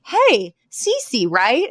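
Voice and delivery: friendly street greeting. Retold or imitated. Sex worker greets Cece on street.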